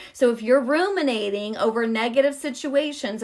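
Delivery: normal talking voice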